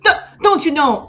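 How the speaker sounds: mock Minnesota "don't you know"; Minnesota tag. Co-host asked for a Minnesota accent, mock Minnesota tag. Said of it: "you gotta add the "don't you know" at the end".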